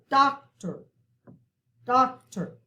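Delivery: "Doctor" with a strong DOC and a light, reduced "ter" ending; first-syllable stress. Shown as a demonstration. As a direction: punch the start of "Doctor", let the end drop. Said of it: "we kinda stress that first syllable more".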